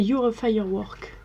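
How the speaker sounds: "Your Firework" said slowly with a French accent; French accent on English. Real, not acted. Beauty vlogger naming the glitter shade to viewers, in a French accent. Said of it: "Toujours avec mon accent".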